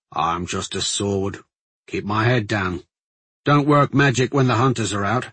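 lightly voiced plain-spoken soldier; measured, emphatic list in a soldier's voice; humble guardsman. Guardsman explaining how he keeps out of trouble, matter-of-fact.

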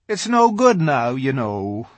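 high, sorrowful fawn; mournful, shaking his head. A narrator's reading. Fawn telling Lucy it's too late, sorrowfully. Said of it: "very sorrowfully".

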